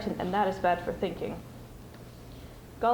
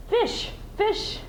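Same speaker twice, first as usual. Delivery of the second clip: sharp, much higher triumphant Gollum cry; excited cry; 12 semitones higher than usual. Acted. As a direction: pounce on the answer. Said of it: "he cried".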